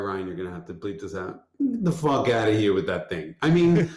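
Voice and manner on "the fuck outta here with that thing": dismissive. Retold or imitated. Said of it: "My reaction is".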